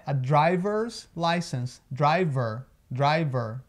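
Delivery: "driver" slowed, final UR a little exaggerated; UR exagerado. Shown as a demonstration. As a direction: lean on the curled UR ending "driver". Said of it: "É lógico que eu tô exagerando um pouquinho". ("driver" devagar, exagerando o UR final)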